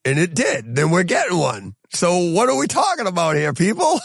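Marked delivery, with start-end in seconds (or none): 1.9-4.0 exasperated shout. Real, not acted. Host ranting at box office fans, exasperated shout. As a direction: yell it at the crowd in disbelief.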